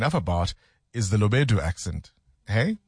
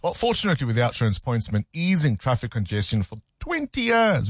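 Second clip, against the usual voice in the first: lively scripted presenter read; animated sponsor message, rising and falling; radio ad read. Acted. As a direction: sell it with swooping emphasis. Reads a sponsor advert.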